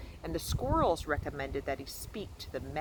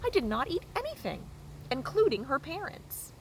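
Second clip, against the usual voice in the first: much higher, quick flat denial; robot voice; 11 semitones higher than usual. A narrator's reading. Robot insisting to the goose it ate nothing. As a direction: insist politely, like a machine.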